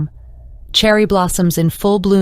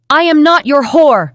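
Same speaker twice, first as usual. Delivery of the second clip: loud, much higher scream; 9 semitones higher, 5 dB louder than usual. A narrator's reading. Akuma rejecting the abuser, screaming very high and loud. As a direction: scream it back with everything. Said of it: "screamed Akuma".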